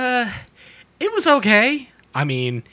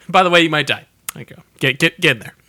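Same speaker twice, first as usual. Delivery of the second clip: cocky hero; 4 semitones higher, 6 dB louder, much faster than usual. Retold or imitated. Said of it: "mock Kirk line".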